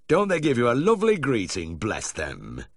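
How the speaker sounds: put-on high, loud gushing old gentleman; doting dog owner. A narrator's reading. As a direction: gush over the naughty dogs. Doting owner voiced in story.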